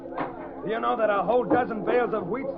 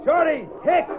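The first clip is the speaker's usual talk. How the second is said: calling out; 7 semitones higher than usual. Acted. Foreman calling out to workers.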